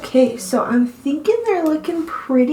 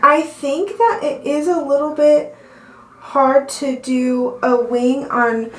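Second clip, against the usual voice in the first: out of breath, slowed down; gasping for air. Real, not acted. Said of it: "I'm out of breath".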